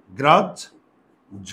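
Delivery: গ্রাহ্য said very slowly, stretching the জ্ঝ sound; slow drawn-out pronunciation. Shown as a demonstration. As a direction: draw out গ্রাহ্য syllable by syllable. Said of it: "তাহলে কি হবে?". (গ্রাহ্য ধীরে টেনে উচ্চারণ)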